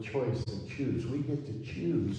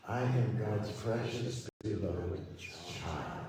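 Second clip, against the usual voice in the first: put-on "child" drawn out long at the end; slow down and linger on "child", falling; stress on CHILD; much slower than usual. Shown as a demonstration. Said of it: "as we emphasize each word".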